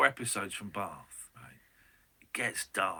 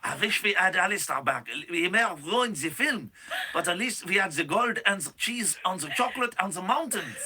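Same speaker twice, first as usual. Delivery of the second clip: playful fake Swiss voice, slightly raised; mock Swiss accent; 2 semitones higher than usual. Host voicing a Swiss citizen about Paul's return, mock Swiss accent. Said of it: "It's a Swiss accent".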